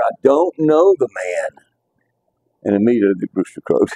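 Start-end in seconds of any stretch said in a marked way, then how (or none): 0.0-1.6 swearing denial. Retold or imitated. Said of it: "began to invoke a curse on himself and to swear".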